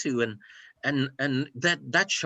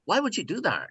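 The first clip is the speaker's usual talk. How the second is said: higher-pitched, challenging question; 7 semitones higher, faster than usual. Acted. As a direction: confront them, demanding a reason. Acted confrontation of past bullies.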